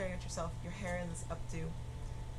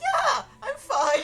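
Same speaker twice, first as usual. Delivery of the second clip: nervous voice crack, very high and loud; 16 dB louder than usual. Voicing a nervous character who insists she is fine: nervous voice cracking. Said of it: "As you just hear the voice crack".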